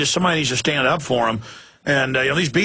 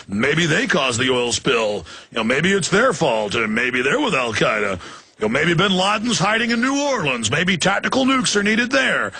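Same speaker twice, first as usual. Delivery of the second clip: sarcastic. Real, not acted. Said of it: "I'm being sarcastic".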